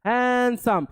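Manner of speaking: "हैंडसम" in two drawn-out beats; syllable by syllable. Shown as a demonstration. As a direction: hold the first syllable of "हैंडसम", then the second. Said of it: "ये एक से अधिक में आ रहे हैं".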